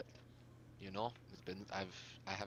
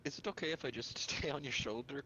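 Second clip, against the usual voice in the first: timid small voice; 4 semitones higher, 6 dB louder than usual. Acted. Timid request in character.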